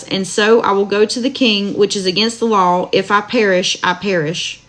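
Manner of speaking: steady, measured Bible reading aloud; scripture reading. Acted. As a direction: read the verses evenly to listeners. Reads Book of Esther aloud.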